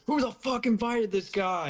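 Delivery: high indignant question; comic, appalled read-out; mock outrage. Acting out an outraged message.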